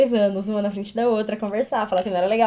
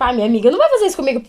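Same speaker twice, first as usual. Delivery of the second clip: put-on quick child thought; 6 dB louder, much faster than usual.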